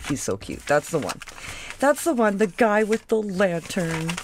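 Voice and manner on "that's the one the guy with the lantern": higher, bright delight on the choice; excited pick. Real, not acted. Vlogger choosing her favourite gnome, excited. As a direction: squeal it out as she picks him.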